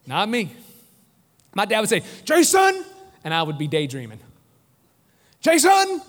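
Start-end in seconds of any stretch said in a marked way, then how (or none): 2.2-2.8 loud, high mock yell; dad's booming call. Dad calling his daydreaming son, booming shout. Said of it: "he has this booming voice". 5.4-6.0 loud, high mock yell; dad's booming call. Dad calling his daydreaming son, booming shout. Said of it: "he has this booming voice".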